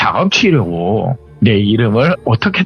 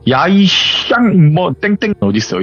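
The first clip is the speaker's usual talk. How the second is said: high-pitched mock yell, drawn-out opening; retold angry yell; 7 semitones higher, slower than usual. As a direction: imitate a woman storming in cursing. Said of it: "이러면서 소리를 치더래요".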